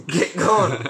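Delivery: gruff Scottish dwarf urging the group on; lightly voiced Scottish brogue; a hint of a Scottish dwarf telling the party to move. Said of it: "why are you always Scottish?".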